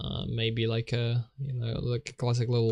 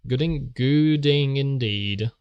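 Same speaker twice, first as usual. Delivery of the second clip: quoting a catchphrase; 2 semitones higher, slower than usual. Retold or imitated. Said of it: "to borrow a quote".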